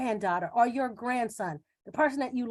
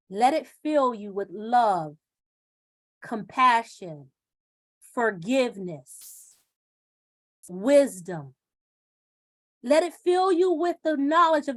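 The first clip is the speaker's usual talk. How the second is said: soothing. Acted. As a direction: lay each word down gently and slowly. Meditative list.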